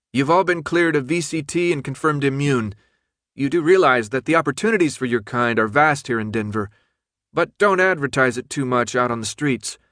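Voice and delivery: lightly voiced cool official woman; crisp announcement over a speaker; official announcer woman.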